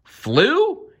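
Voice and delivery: very high, loud "Flew?"; amazed shout. A narrator's reading. Timothy turning to the crows, shouting in amazement. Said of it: "Timothy shouted".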